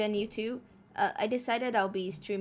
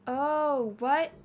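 surprised; 5 semitones higher, 6 dB louder than usual. Real, not acted. Sudden surprise at a setting.

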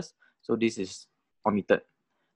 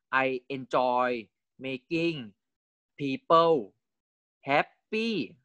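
slow rising read; slower than usual. Shown as a demonstration. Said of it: "Okay, I enjoy making people happy".

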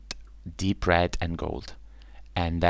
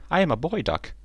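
much higher, small duckling; chirpy little duck; 10 semitones higher than usual. Acted. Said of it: "said the ugly duckling".

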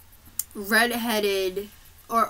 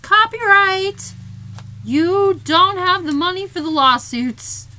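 mock alarm; 10 semitones higher, 8 dB louder than usual. Real, not acted. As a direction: blurt it out in comic alarm. Joking copyright alarm.

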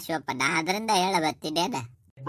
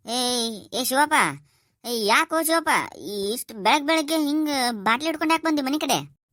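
much higher, startled questioning; surprised call; 8 semitones higher than usual. Acted. Landlord startled to see drunk Shivappa at his door, much higher voice. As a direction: raise your voice in alarm at the sight.

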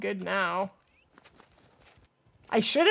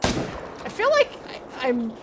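out of breath; 2 semitones higher than usual. Real, not acted. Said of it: "having a hard time catching my breath".

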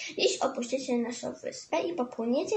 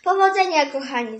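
cheerful shouted goodbye; calling out; 8 dB louder than usual. Acted. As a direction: call good luck across the water. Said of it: "zawołali strażnicy przyrody".

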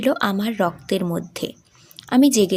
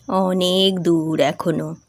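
lower, slow, halting words; slow and broken; 4 semitones lower, slower than usual. Acted. Father hiding grief from his sick daughter, slow and broken. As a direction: let the voice break as you say it. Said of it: "আস্তে আস্তে ভেঙে ভেঙে বললাম".

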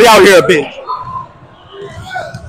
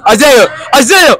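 hollering a friend's name; calling out; 3 semitones higher, slower than usual. Real, not acted. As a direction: shout his name to get his attention. Calling out to Isaiah.

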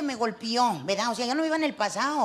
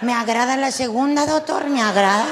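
gleeful laughing answer; 6 dB louder than usual. Retold or imitated. Gleeful choice of husband's surgery.

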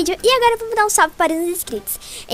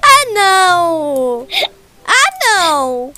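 dismayed cry; 5 dB louder, much slower than usual. Real, not acted. Game fail, cries out.

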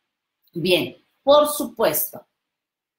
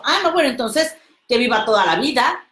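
higher, mocking retraction; mock backtrack; 4 semitones higher, 4 dB louder, faster than usual. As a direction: fake concession, quick and sarcastic. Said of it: "¿Cómo me puedes decir eso?". (rectificación burlona y rápida)

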